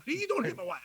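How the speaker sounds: hammed-up Southern impression. Greeting Bobby down in Georgia, hammed-up Southern impression. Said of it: "whenever I go down there, I'm like".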